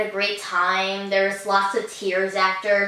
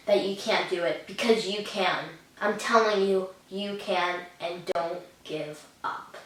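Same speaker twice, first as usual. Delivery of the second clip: sincere advice; 3 semitones lower, 6 dB quieter than usual. Real, not acted. Earnest advice to kids.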